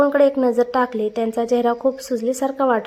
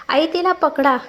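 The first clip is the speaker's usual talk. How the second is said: desperate shout; 4 semitones higher than usual. Acted. Karthik begs his mother to catch baby Lakshmi, a mild desperate shout. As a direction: read the plea as an urgent, lightly raised call. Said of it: "Kartik बेमीच्या देठापासून ओरडला".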